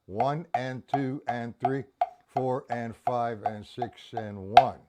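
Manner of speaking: steady counting aloud, 'one and two and three', each number even; counted rhythm. Shown as a demonstration.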